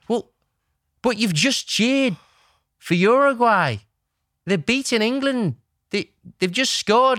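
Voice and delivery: high, slow, incredulous protest; mock indignation, pitched well up; upset. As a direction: imitate an upset fan remonstrating. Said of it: "he was so upset about the score".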